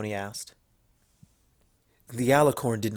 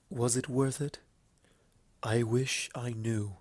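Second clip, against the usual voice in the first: whisper; 7 dB quieter than usual. A narrator's reading. Luna answers Applejack's question, in a soft whisper. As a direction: let the words fall quietly, half to herself. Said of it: "the dark mare whispered her reply".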